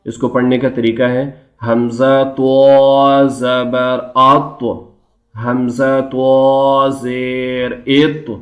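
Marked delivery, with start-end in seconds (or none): 1.7-8.3 slow drawn-out chant for students to repeat; slow chanting teacher; recitation drill. Shown as a demonstration. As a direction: model each syllable slowly. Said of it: "اس کو کیسے پڑھیں گے".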